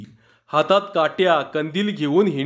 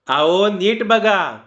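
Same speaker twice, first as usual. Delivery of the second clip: slow, higher insistent villager voice; urging a careful look; 4 semitones higher, slower than usual. Acted. Carpenter telling Anna to check carefully, slow insistent higher voice. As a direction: press him to look properly.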